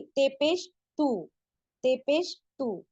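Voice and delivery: ते पेश तू said slowly; slow drill. Shown as a demonstration. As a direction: spell it out slowly. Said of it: "spelling drill". (धीरे धीरे तू)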